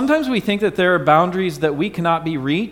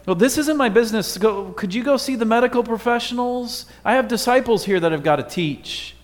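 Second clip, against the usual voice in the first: higher and quicker, waving her off; a hint of a busy man passing her on; mock impatient brush-off; dismissive Jesus; 6 semitones higher than usual. Imagined Jesus dismissing bleeding woman.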